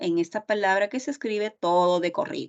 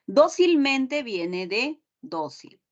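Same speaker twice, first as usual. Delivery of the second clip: Dócilmente said slowly, stress held on the dó; slow teacher demo of Dócilmente with the stress on dó; 4 semitones higher, slower than usual. Shown as a demonstration. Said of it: "Yo sé que dócil se tilda".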